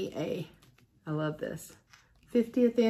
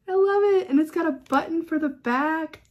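thrilled; 8 semitones higher, 6 dB louder than usual. Real, not acted. Thrilled by gift.

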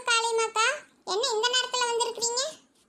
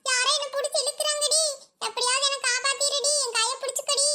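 higher, panicky plea for help; frightened plea; 3 semitones higher than usual. Acted. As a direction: beg the girl to grab your hand as something drags you. Being dragged away, pleading. (இழுக்கப்படும்போது பயந்த கெஞ்சல்)

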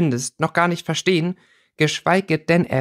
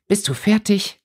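higher-pitched, hostile question; hostile hiss; 8 semitones higher than usual. A narrator's reading. Winona challenging Merton after his long lecture, hostile. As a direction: cut in with pointed hostility. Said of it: "zischte Winona feindselig".

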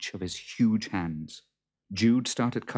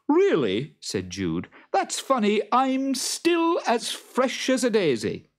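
Jude's voice; 7 dB louder than usual. Acted. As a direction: ask it loud and fretful.

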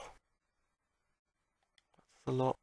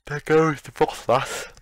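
triumphant; 3 semitones higher, 8 dB louder, slower than usual. Real, not acted. Victory over Froslass, loud slow.

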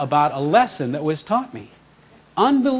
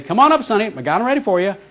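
Ruby; 5 semitones higher, faster than usual. Retold or imitated. Ruby calling him up to the window, higher imitation. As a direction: call it out the way Ruby greets him. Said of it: "and she'd say".

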